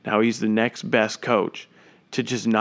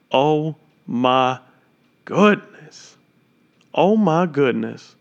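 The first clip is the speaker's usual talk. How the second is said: amazed exclamation; 3 semitones higher, much slower than usual. Real, not acted. Commentator replaying the shot in awe, amazed. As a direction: marvel at the shot.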